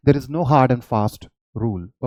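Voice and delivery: slow, deliberate dictation of a note; reading notes aloud. Shown as a demonstration. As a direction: read it out word by word for students. Repeats the note slowly. (धीरे-धीरे note पढ़कर सुनाना)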